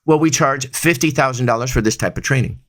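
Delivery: steady, sure price quote; firm, self-assured quote; confident answer. Shown as a demonstration. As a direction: state the price like you own it. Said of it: "I should be saying".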